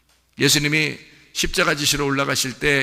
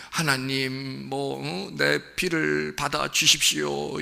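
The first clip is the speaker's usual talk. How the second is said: soft plea; 4 dB quieter, much slower than usual. Pretend. Voices Abel pleading to God.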